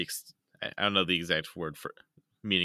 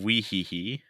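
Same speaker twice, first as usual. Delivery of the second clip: silly laugh. Shown as a demonstration. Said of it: "Weeheehe is a good one".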